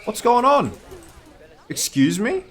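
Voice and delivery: high, squeaky panicked disbelief; shocked disbelief. Real, not acted. Player finds all the zoo animals dead, high shocked squeak. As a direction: shriek it as the animals all die.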